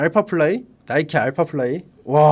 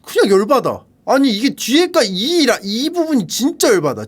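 worked-up rant, higher pitched; exasperated; 4 semitones higher, 3 dB louder than usual. Real, not acted. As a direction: get comically riled up over a shoe. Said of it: "왜 이렇게 열받지?". (열받아서 흥분한 투)

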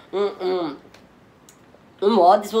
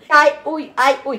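high, loud imitation of pained moans; mock moaning; 5 semitones higher, 6 dB louder, much slower than usual. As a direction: mimic someone's moans mockingly. Imita gemidos de outra pessoa. (gemidos imitados com deboche)

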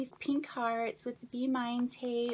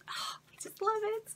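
whispered with delight, much higher; 12 semitones higher, 3 dB quieter, faster than usual. Real, not acted. Unboxing a friend's gift, a delighted whisper. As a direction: breathe it out in a thrilled hush. Delighted by stickers in happy mail.

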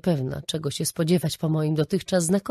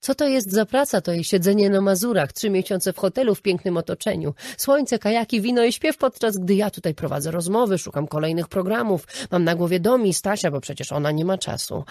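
indignant rant; 2 semitones higher, 4 dB louder than usual. Retold or imitated. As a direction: list her perks with bitter sarcasm. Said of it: "A on na to".

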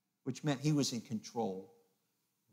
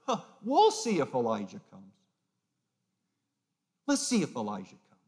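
mocking taunt; 5 dB louder than usual. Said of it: "They're mocking him".

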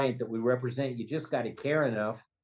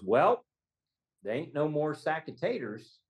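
higher-pitched, lightly voiced quote of a client; a hint of a folksy witness; retold client's answer; 4 semitones higher than usual. Quoting client's first answer.

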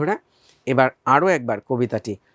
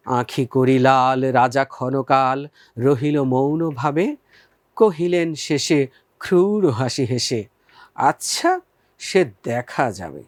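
poem recitation; slower than usual. Shown as a demonstration.

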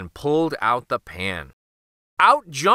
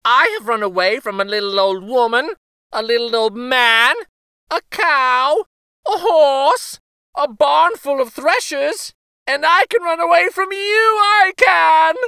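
high, loud and fast taunt; laughing gingerbread boy; 11 semitones higher, 6 dB louder than usual. A narrator's reading. Gingerbread boy taunting the cow, high fast bragging. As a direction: brag quickly with a laugh. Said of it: "he said".

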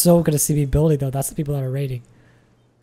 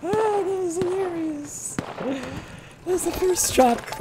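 laughing; 13 semitones higher, 4 dB quieter, much slower than usual. Real, not acted. Laughing after the kill.

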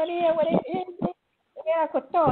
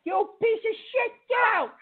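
furious yelling; 4 semitones higher than usual. Real, not acted. Host raging at a prank caller to get out. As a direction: explode at the caller.

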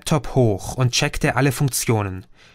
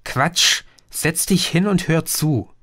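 ungracious; 4 semitones higher than usual. Acted. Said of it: "ungnädig".

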